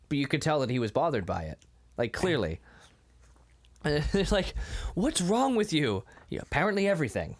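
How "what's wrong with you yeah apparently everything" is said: mock-sarcastic retort, pitched up; playfully sarcastic, higher voice. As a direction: act out an exasperated jab with a laugh creeping in. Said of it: "It sounds pretty sarcastic".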